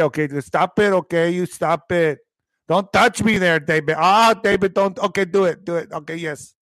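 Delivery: playful put-on El Paso Spanglish lilt; El Paso accent. Streamer mimics locals telling David to stop, mock El Paso accent. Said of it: "They always say".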